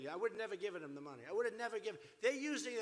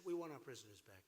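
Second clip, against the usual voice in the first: quiet demand; 9 semitones lower, 5 dB quieter, faster than usual. Retold or imitated. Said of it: "All you had to do is say".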